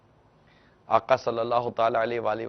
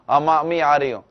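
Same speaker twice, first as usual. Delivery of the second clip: louder, a brushed-off "coming, mom"; mock offhand reply; 6 dB louder, faster than usual. Daughter calling back to her mother while still watching, loud and offhand. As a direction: call back to mother without moving.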